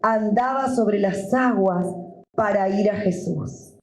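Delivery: measured, deliberate Bible reading; scripture reading. Acted. Pastor reading the Gospel to his church, measured. Reads Bible passage aloud.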